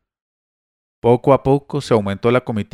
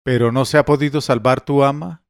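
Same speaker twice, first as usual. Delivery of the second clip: alarmed cry; 3 semitones higher than usual. Acted. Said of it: "mi amo gritó entonces".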